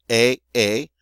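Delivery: "a, a," as two matching ay sounds; identical vowel sounds. Shown as a demonstration. Teacher shows both forms sound alike, two matched vowels. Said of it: "both sound alike".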